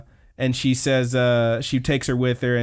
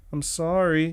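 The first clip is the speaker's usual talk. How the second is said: higher-pitched, pleading little voice; mock apology; 4 semitones higher than usual. Retelling the kicked-out girl at the intercom, mock apology. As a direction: imitate a sheepish apology.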